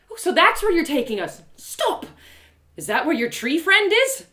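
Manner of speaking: high, loud needling tease; teasing taunt. Acted. Narrator goading Trinia about her secret, teasing and loud. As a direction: poke at her sore spot.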